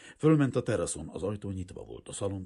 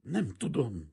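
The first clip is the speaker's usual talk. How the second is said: higher, louder startled answer; frightened stammer; 7 semitones higher, 5 dB louder, slower than usual. A narrator's reading. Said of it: "dadogta a leány".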